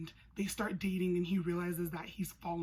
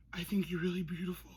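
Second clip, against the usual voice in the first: whispered come-on; faster than usual. Retold or imitated. He's all, quoting Christian.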